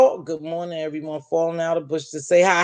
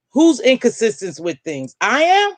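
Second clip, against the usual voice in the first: mock surprise; 4 semitones higher than usual. Real, not acted. Reacting to a chat comment.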